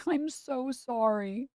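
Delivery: slow, high giggling sorry; laughing apology. Real, not acted. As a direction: drag it out through a laugh.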